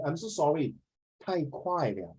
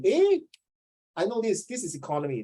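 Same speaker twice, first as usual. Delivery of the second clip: mock student realizing; 6 semitones higher than usual.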